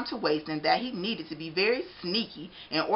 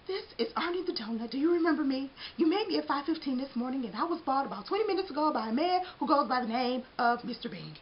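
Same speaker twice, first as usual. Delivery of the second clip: donut character voice; 7 semitones higher, faster than usual. Acted. Arnie on phone urgent.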